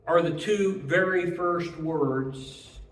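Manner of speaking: ordinary talk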